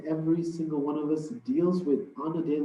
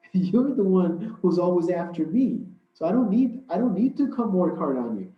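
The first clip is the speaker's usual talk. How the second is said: mocking laugh through the words; lightly amused shaitan taunting; devil laughing; 3 semitones higher, 3 dB louder than usual. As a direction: chuckle as the devil gloats at the scholar. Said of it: "just starts laughing".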